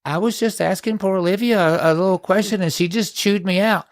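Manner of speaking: mock victim voice. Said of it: "play the victim and say".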